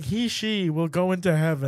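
retold blind reading, straight through; distraught misreading. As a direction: blurt out both options as one phrase, half laughing. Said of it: "I was just reading it".

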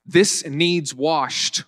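"This needs washed", slowly, no "to be"; dropped "to be". Shown as a demonstration. Preacher quoting his old Virginia phrasing, slow and deliberate. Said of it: "I used to always say".

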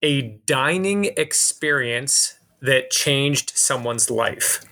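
slow, deliberate composing; thinking aloud. Real, not acted. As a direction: work out the wording slowly as you speak. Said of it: "I'll just talk aloud".

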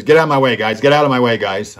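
loud, brusque command to clear the way; a big tough player barking at the press; gruff barking order. Retold or imitated. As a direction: shove the reporters aside with your voice. Hockey star barging through reporters.

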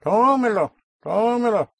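Tómelo, high stressed TÓ, then a clearly sounded E; clear unstressed vowel. Shown as a demonstration. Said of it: "pronouncing the A or the E, even unstressed".

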